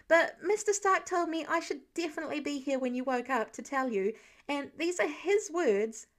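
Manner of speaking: put-on chatty young Spider-Man explaining; lightly voiced eager teenage boy; eager teen hero. Teen hero relaying message.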